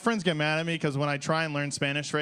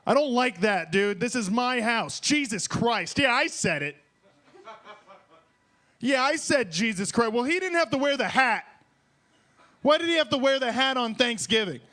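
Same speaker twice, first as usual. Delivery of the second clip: mock argument; 4 semitones higher than usual. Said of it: "arguing with my wife about".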